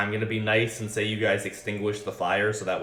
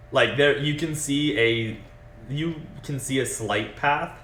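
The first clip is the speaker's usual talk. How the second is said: game master narration. Acted. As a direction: set the scene for the players. Game master describes the scene.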